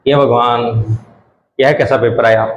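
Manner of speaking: low, mock despairing groan; half-hearted exam despair; dismayed. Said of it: "वैसा ही होता है ना". (पेपर देखकर नकली निराशा)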